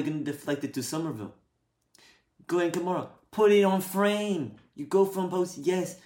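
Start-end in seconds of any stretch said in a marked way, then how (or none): 2.5-6.0 exasperated yell. Real, not acted. Yelling at player in replay.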